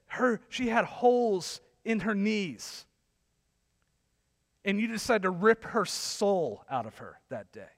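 incredulous, emphatic telling-off; indignant rebuke. Retold or imitated. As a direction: retell a scolding, stretching the key words. Retold rebuke of church leader.

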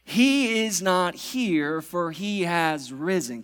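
slow, weighty scripture reading; solemn proclamation. Acted. Pastor proclaiming the resurrection to church, slow and weighty. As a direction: let each word land slowly.

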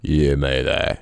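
low, hammed-up Aussie mate; Bob voice. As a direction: overdo a low blokey Australian greeting. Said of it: "you better do a Bob voice".

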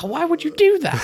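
high-pitched mock wailing; Mike crying. Imitating Mike talking to himself after the crash, mock crying. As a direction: imitate a man berating himself in tears. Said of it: "Mike started crying".

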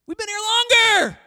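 longer shouted high and loud, falling; a loud, whiny protest on longer; mocking church people. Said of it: "'cause we've been here longer".

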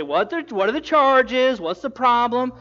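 loud, high demanding king. Acted. Agrippa presses the Sanhedrin about the charges, demanding. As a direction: push the question at the accusers.

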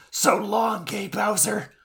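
high put-on hero voice, badly faked; Kaiba. Co-host as Kaiba rescuing Mokuba, high failed impression. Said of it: "I can't do the Kaiba voice".

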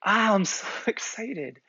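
put-on high-pitched kid excitement with a laugh breaking in; brimming with joy. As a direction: imitate thrilled twins, chuckling midway. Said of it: "brimming with joy".

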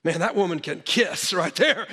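said through a laugh; laughing thought. Retold or imitated. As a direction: chuckle it out as a cheeky punchline. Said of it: "you know what my first thought was".

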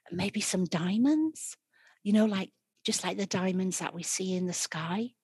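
butter him up, too sweet; sickly sweet voice. Acted. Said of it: "her sickliest, like, sweetest, sickliest voice".

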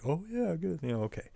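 mock agreement. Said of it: "mock dumb agreement".

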